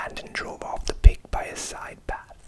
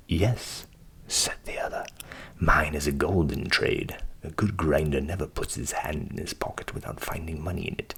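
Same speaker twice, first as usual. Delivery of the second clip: low voiced proud grinder; low, boastful grinder.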